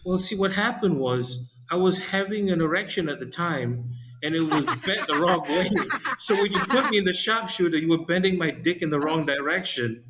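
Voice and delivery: put-on embarrassed kid confessing, high and half-laughing; mock sheepish kid. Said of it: "he said".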